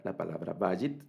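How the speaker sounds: vayit with the stress on VA; stress on first syllable. Shown as a demonstration. Teacher modelling Hebrew stress, VA-yit. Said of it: "digamos en la primera sílaba".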